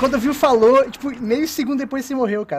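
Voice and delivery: loud, insistent protest; heated explanation. Real, not acted. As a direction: argue loudly over a teammate's death. Heated defence in game argument.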